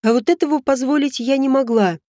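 usual speaking voice

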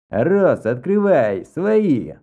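loud booming call through the door; roaring. A narrator's reading. Vlas roars outside the door, demanding entry. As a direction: bellow it at the door. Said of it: "Проревел такой знакомый голос".

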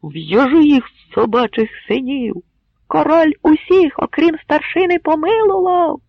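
high, loud furious yelling; angry crowd cry; mob shout. Acted. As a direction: roar it like an enraged crowd.

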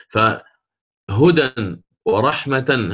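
فهدى drawn out very slowly, then ورحمة with clear tanween at a slow pace; slow pronunciation demo. Shown as a demonstration. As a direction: stretch فهدى and ورحمة, sounding the nunation. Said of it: "هكذا". (نطق بطيء واضح للتنوين)

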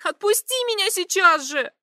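high, loud screaming order; shrieking demand. A narrator's reading. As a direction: scream to be let go. Viktoria shrieking to be released.

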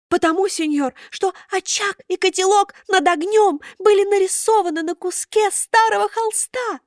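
high thin puppet voice. A narrator's reading. Buratino explains to Karabas, high thin voice.

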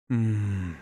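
quiet pleasured moan; soft moan. A narrator's reading. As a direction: let out a long moan. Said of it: "простонала она".

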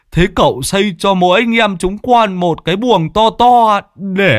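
high, loud giddy begging; Lâm Sẹo gleefully begging a room in the mansion; gleeful mock pleading. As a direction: whoop it up like a cheeky freeloader.

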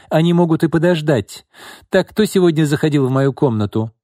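high, loud demand for an answer; imperious and insistent. A narrator's reading. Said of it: "повысила голос Изольда".

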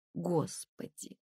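soft, slow, weary sigh of a word; with anguish. Acted. Лена laments Тонечка's meddling with soft anguish. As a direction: let the longing sink it. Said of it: "сказала Лена с тоской".

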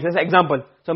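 ordinary delivery

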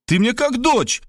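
high-pitched frantic protest; panicked cry. A narrator's reading. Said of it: "и кричал". (отчаянный вскрик высоким голосом)

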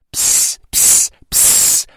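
unvoiced hissing psst to get attention; whispered psst. Kids hissing to catch the skeleton's attention, whispering. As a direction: call him over in a whisper.

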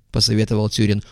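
usual speaking voice

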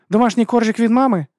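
high, loud, sarcastic jab; mocking teen. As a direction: tease him with a high sneer. Teen girl mocks the artifact.

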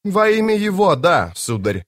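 cut off sharply. A narrator's reading. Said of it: "отрезал Итковиан".

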